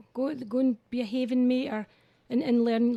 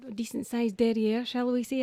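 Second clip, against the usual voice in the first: posh voice. Pretend. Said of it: "I'm gonna try to use my posh voice here".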